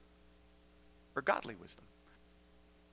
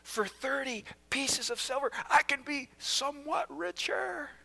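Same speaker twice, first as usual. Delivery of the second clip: softer, sly musing; scheming Judas; 6 semitones higher, 8 dB quieter than usual. Acted. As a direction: plot it quietly to yourself. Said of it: "Judas says".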